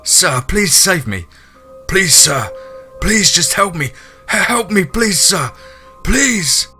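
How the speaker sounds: loud, high, desperate begging; pleading and crying. A narrator's reading. Man begs hunter to save him, high crying plea. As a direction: beg tearfully, stumbling over the words. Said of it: "still pleading and crying".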